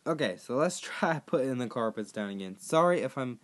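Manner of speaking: losing voice, cracking; rough, failing voice breaks; hoarse voice. Real, not acted. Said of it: "Sorry if I lost my voice".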